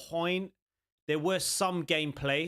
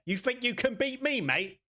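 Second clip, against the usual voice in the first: cocky mock challenge in an English accent; put-on English accent, pitched up; hammed-up English hard man; proper English accent; 6 semitones higher than usual. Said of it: "I sound proper English there".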